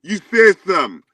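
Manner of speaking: angry shouting. Real, not acted. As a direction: shout him down in anger. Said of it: "Calm down".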